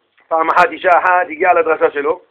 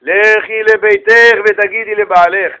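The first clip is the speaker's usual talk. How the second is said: solemn instruction; much slower than usual. Acted. Rabbi solemnly instructs woman.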